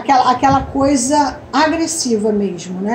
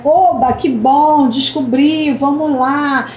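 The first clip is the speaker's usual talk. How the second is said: mild enthusiasm; slower than usual. Shown as a demonstration. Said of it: "Palavras comuns".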